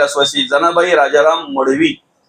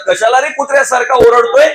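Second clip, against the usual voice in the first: mild mock telling-off, pitched up; lightly acted household reproach, higher; mock scolding; 5 semitones higher than usual. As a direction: scold a noisy relative in a raised voice. Household scolds someone who is shouting.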